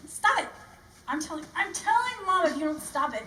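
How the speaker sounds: put-on laughing whiny kid shout; whiny tattling little sibling. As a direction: threaten to tell Mom, whining. Tattling to Mom.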